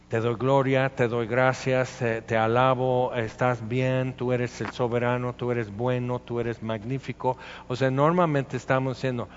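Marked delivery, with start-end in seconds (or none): 0.1-7.4 even, steady litany of praise; dutiful praise. Acted. Believer praising God despite not understanding, dutiful recitation.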